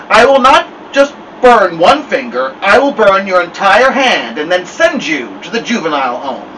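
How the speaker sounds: loud, menacing threat; Snake Woman voice. Acted. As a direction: menace him, stressing not. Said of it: "Snake Woman voice".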